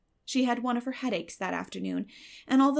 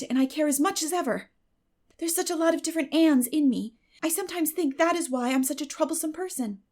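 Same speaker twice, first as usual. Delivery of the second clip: put-on higher, musing voice of a dreamy girl; dreamy girl Anne; 5 semitones higher, 5 dB louder than usual. Anne musing to Diana in the violet vale, dreamy girl's voice. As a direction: wonder aloud like a thoughtful girl.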